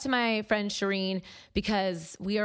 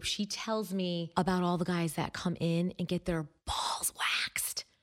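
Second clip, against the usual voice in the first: speaking in a whisper; 2 semitones lower, 4 dB quieter than usual. Alone on the podcast, the speaker passes on the waxing girl's stories, whispering. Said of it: "I don't know why I'm whispering".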